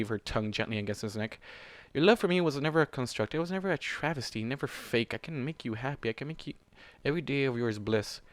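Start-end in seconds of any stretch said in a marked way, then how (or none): 1.9-8.2 purring seduction. Acted. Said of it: "Storm purred".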